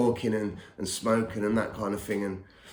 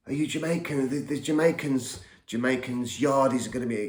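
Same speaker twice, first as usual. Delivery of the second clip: higher-pitched mock alarm; frightened bouncer, imitated; 4 semitones higher than usual. Bouncer on the phone fearing the yardies, mildly alarmed. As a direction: lightly act out a worried man's questions. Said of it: "they were frightened of the yardies".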